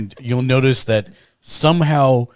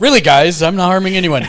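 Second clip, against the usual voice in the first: laughing imitation; 6 semitones higher, 6 dB louder, faster than usual. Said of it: "Why would you say that".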